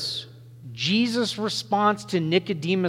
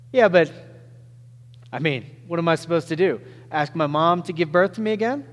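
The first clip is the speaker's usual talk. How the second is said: clever teasing Nicodemus; faster than usual. Acted. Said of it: "Nicodemus is saying it's something like".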